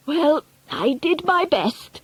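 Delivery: high, slow resigned sigh. A narrator's reading. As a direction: shrug it off with dignity. Grandmother leaves with dignity.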